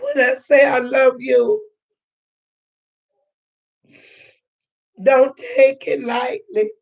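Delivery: real tears breaking through, her voice catching; tearful. Real, not acted. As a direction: fight back tears while telling the viewers she loves them. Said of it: "y'all gonna make me cry this morning".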